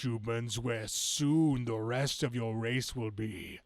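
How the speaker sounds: booming comic villain threat. Acted. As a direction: menace the humans like a comic-book beast. Reading villain comic dialogue.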